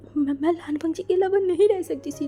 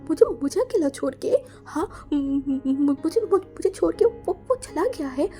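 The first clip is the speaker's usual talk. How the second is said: tearful disbelief; 3 semitones higher than usual. Acted. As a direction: choke on the words. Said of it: "wing जो बोला". (अविश्वास में रुंधी आवाज़)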